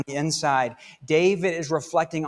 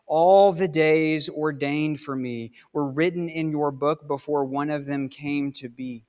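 scripture reading. Acted. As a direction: read the psalm aloud like a prayer. Reads a psalm aloud.

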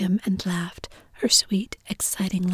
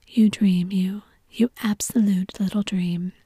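gushing; 4 dB louder than usual. Acted. Mother gushing over child.

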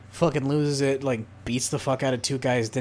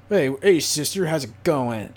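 cheery brother greeting; 4 dB louder than usual. Retold or imitated. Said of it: "He's like".

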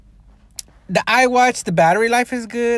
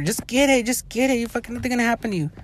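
mock pushy people; 5 semitones higher, 3 dB quieter, faster than usual. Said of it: "people are".

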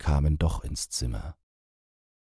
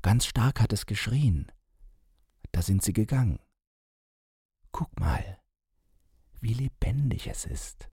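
proud; 6 semitones higher than usual. A narrator's reading. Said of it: "sagte sie stolz".

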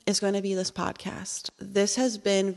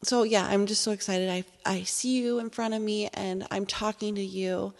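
ordinary talk, nothing marked

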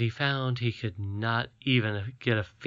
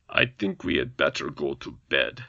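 low gruff grumble; weary goblin king; 9 semitones lower than usual. A narrator's reading. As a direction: grumble it tiredly.

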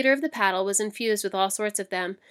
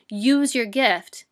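slow and louder, each word pressed; firm resolve; 2 semitones higher, 6 dB louder, much slower than usual. Acted. Gabe urging himself on before Trade Master, slow firm resolve. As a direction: steel yourself and say it aloud.

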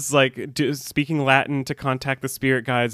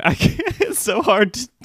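high, helpless giggly protest; laughing; 7 semitones higher than usual. Real, not acted. Host fails at the voice, laughing. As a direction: break up mid-performance. Breaking up out of the voice.

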